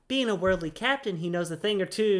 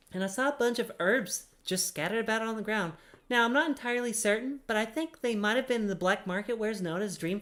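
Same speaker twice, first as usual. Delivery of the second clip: a lightly higher quest giver telling secrets; higher voiced adventurer; 4 semitones higher than usual. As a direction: read Ninya's lines a bit higher. Keeps reading Ninya's quest text.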